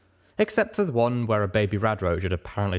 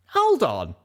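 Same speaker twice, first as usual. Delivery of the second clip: higher, stunned narrator voice; dumbstruck; 8 semitones higher, 4 dB louder than usual. Acted. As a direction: stop everyone short, higher and louder.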